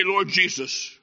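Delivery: acted despair, swelling to a wailed last word; anguished confession. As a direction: confess to God, breaking into a drawn-out cry. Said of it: "Charlie will say in that day".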